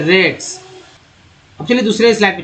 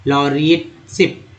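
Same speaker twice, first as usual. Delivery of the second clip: slow word reading; 2 semitones lower, much slower than usual. Shown as a demonstration. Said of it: "लॉन्डर था यहाँ लॉ".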